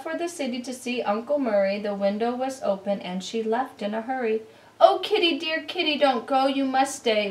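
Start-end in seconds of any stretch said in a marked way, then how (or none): 4.8-7.3 high, loud calling after the cat; high loud plea; pleading shout. Acted. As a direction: call her back desperately. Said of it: "we shouted and cried".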